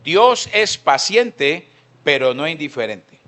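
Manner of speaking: "Dios" lento, alto y fuerte, luego "pero no indiferente" normal; énfasis en Dios. Shown as a demonstration. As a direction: recalca "Dios" alargándolo. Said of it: "¿Sí entendió?". ("Dios es paciente" muy lento y enfático)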